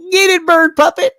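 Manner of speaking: high, loud mock cheer. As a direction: egg the bird puppet on, gleeful. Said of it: "I'm like".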